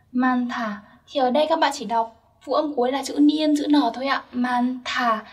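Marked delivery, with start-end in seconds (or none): 4.3-5.2 "Man thả" with an aspirated TH, like a breathy t; bật hơi. Shown as a demonstration. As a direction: say "Man thả", releasing a puff of air on "thả". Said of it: "nối lên chữ tờ và đọc thành thả". (đọc "Man thả", bật hơi ở âm "th")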